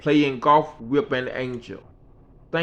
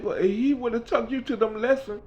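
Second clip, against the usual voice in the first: Mickey's voice; 9 semitones higher than usual. Retold or imitated. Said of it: "She said".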